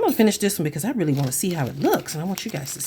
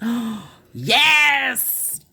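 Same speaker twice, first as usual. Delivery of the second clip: high, loud burst of delight; gasp, then squeal it out with a laugh; real excitement; 8 semitones higher, 6 dB louder, much slower than usual. Real, not acted. Crafter thrilled at the perfect find, real excitement. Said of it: "Sorry, I'm getting excited".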